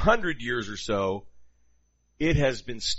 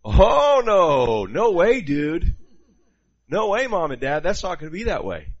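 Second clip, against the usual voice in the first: mock teen protest; 4 semitones higher, 7 dB louder than usual. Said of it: "and they're like".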